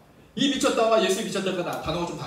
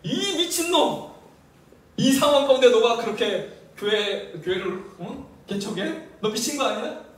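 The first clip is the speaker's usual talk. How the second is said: mock scolding relatives; 2 semitones higher, 3 dB louder than usual. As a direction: scold like a disapproving uncle. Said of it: "친척들 만나는데".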